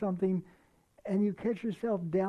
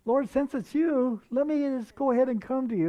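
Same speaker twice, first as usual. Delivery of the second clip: rushed, higher and a touch louder eager blurt; a hint of impulsive Peter jumping in; 5 semitones higher, 4 dB louder than usual. Preacher voicing brash Peter asking Jesus to call him, hasty eager blurt. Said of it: "great foot in the mouth Peter".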